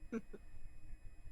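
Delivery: breathy, half-laughed donkey death wheeze; dying donkey sound. Pretend. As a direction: give a timid dying donkey noise. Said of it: "make a dying donkey sound for us".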